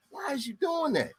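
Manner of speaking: high incredulous put-on voice; baffled question. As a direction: squeak out disbelief. Self voiced confused.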